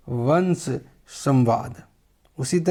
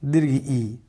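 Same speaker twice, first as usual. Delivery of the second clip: long vowel demo; 2 semitones lower, slower than usual. Shown as a demonstration. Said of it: "हर्ष ई, दीर्घ ई".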